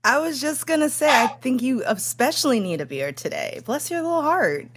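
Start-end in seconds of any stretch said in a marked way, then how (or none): 3.7-4.7 high, sweet bless-your-heart, truly meaning it; sincere Midwestern sympathy. Shown as a demonstration. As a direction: say Bless your little heart with real pity, not condescending. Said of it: "that's the Midwestern good".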